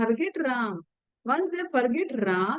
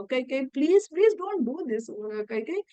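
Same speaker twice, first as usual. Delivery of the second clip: begging, crying; 4 semitones higher than usual. Retold or imitated. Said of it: "he's crying, he's begging".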